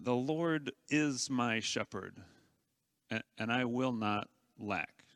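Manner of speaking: quiet, earnest declaration of trust; heartfelt. Shown as a demonstration. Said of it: "engage your heart and say".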